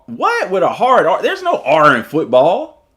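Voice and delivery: can't believe a hard R in football; mock-outraged questioning; incredulous. Real, not acted. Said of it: "I say football with a hard R".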